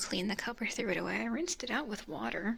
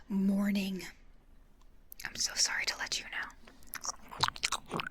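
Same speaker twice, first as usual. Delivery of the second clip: whispering. Real, not acted. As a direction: keep it all breathy and whispered. Whispers through the stream.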